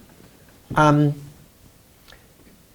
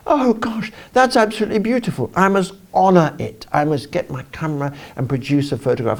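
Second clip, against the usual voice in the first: excited; 4 semitones higher than usual. Retold or imitated. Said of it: "I'm getting all passionate".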